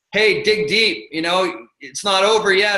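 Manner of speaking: cocky, smug, taunting tone. Retelling what a racer said while passing on a hill: imitating a smug remark. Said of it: "quite smugly looked at me and said".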